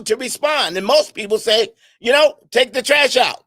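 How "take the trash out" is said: a mild mock bossy order. Spouse ordering the other to take the trash out, mildly curt. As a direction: tell them to take the trash out, a touch curt. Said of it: "the way you said it".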